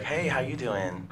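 mock a man faking a girl's voice; imitating a fake feminine hello, slow and soft; put-on girly voice. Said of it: "you could tell her voice was being put on".

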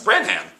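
"Branham" with the H and full "ham" sounded; as spelt. Shown as a demonstration. Teacher showing a misreading, "Branham" with a full "ham". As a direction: read "Branham" just as it is written. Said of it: "It's not".

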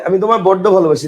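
বড্ড with a held double d; বড্ড said as boddo, not boro; doubled d in বড্ড. Shown as a demonstration. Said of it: "বড় ভালোবাসি না বলে কি বলে".

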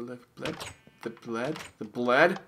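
ramp each repeat up into a shout; building shout. Acted. Escalating repeated word, getting louder.

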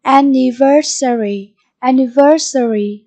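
"Anniversary" stressed on VER; stress on third syllable. Shown as a demonstration. Teacher sounding out vocabulary for pupils, "Anniversary" stressed on VER. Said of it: "nhấn âm tiết số ba".

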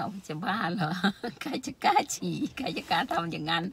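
retold scoff broken by a laugh; laughing disbelief. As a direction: laugh off a friend's silly suggestion. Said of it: "คิดว่ามันเป็นเรื่องขำขัน". (แกล้งโวยปนหัวเราะ)

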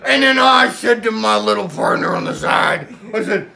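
lightly voiced old sea captain spinning a yarn; a hint of a salty pirate telling a tall tale; pirate storyteller. Pirate Paul tells Billy his Godzilla story, lightly pirate-voiced. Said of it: "the pirate is back".

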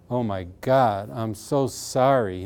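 mildly grief-struck, drawn-out remorse; retold sobbing apology. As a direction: act out a tearful apology without real sobs. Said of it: "Starts to sob".

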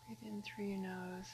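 soft, unhurried meditation voice with long pauses; guided meditation. Acted. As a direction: settle them gently into breathing. Leads a meditation.

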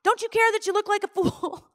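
high, strained furious tirade; angry at God. Retold or imitated. Mother railing at God after the failed declaration, high furious tirade. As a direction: rail at God, embarrassed and outraged. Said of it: "And I was like".

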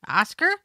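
rising, questioning call of Oscar; questioning inflection. Shown as a demonstration. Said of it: "his name in a variety of inflections".

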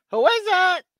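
high squawky parrot asking who's there; a parrot calling through the door. Retold or imitated. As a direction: chirp it out like a talking parrot. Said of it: "and the parrot says".

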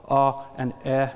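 "uh" and "eh" as lax centralized vowel sounds; isolated demo sounds "uh" and "eh". Shown as a demonstration. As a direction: say "uh" and "eh" with the tongue near the middle. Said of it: "more centralized values would be vowel".

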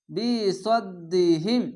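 বি সদ্দিহিম drawn very slowly, doubled দ held; slow recitation. Shown as a demonstration. Teacher demonstrating tajweed: slow chanted reading. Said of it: "সদ দাল বা সদ".

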